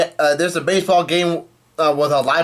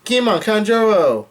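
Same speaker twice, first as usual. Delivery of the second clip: retold yell; 7 semitones higher than usual. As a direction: call the names out high, imitating alarm. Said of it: "somebody yells out".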